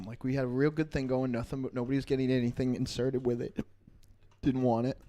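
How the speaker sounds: hiccuping while talking; hiccups. Real, not acted. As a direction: talk through the hiccups. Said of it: "Now I have the hiccups".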